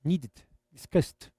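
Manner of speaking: "needed, discussed" slowly, the E of the ending reduced; demonstrated pronunciation. Shown as a demonstration. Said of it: "não vai pronunciar o E".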